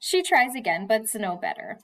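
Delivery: reading a novel aloud to the class; steady read-aloud storytelling; story reading. A narrator's reading. Teacher reads novel aloud.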